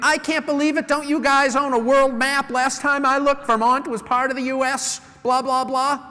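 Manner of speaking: high, exasperated customer venting; indignant complaint. Pretend. Customer complaining to sales rep, exasperated rant. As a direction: rant like a customer furious over a wrong bill. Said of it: "You're gonna be".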